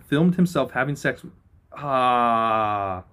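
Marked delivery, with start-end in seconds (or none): 1.7-3.0 disgusted groan. Real, not acted. Disgusted reaction to the headline.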